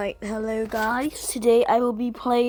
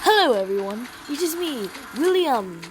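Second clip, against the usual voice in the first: clickbait video narrator. Acted. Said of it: "YouTube voice".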